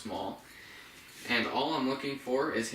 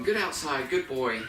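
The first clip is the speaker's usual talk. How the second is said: enthusiastic praise; 3 semitones higher than usual. Acted. Trainer praising dog after it goes outside, enthusiastic praise. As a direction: heap praise on a puppy. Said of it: "Gets him lots of praise".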